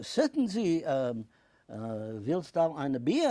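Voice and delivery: put-on high, loud German-accented offer, slowing down at the end. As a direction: play the German host offering a beer, slowing on the question. German host offers a beer.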